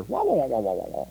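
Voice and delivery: muted, droning wah-wah like a muffled trombone; soft, mocking wah-wah drone; Charlie Brown teacher. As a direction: imitate the adult voice from Charlie Brown. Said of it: "Charlie Brown, the teacher".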